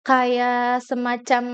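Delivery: stretched, slow hesitant filler; filler hesitation demo. Shown as a demonstration. Speaker showing the audience what filler words sound like. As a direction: drag the filler out on purpose. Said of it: "filler words".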